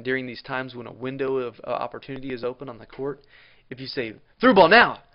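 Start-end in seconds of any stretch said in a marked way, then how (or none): 4.4-5.0 "Through ball now" shouted high and loud; urgent call. Shown as a demonstration. Coach calling a pass to a teammate, urgent loud "Through ball now". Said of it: "that urgent sound in my voice".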